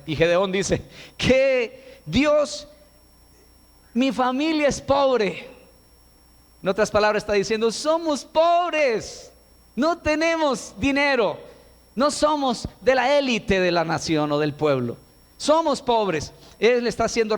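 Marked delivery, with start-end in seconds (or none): 1.2-5.5 startled objection. Acted. Gideon answers God, objecting. 7.7-16.3 pleading poverty. Acted. Gideon pleads his poverty.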